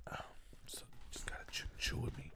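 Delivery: ASMR whisper. Pretend. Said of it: "ASMR bit".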